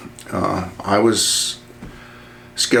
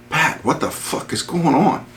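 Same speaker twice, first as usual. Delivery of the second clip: retold bewildered demand; 6 semitones higher, slower than usual. Officer calling friend Pat at the barracks, mildly bewildered. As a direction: mildly act out wanting answers now.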